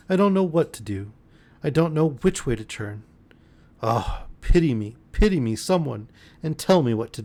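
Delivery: pleading, a hint of sobs; sobbing plea. Girl sobbing to him for pity. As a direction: beg for pity, voice breaking. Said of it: "sobbing wildly".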